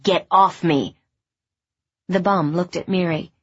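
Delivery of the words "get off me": firm angry. Acted. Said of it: "I said".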